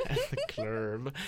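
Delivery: slow, laughing "clurb" for "club"; silly "club" pronunciation. Pretend. Repeating the joke to a giggling friend, "club" as a drawn-out "clurb". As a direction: stretch "club" into a goofy "clurb".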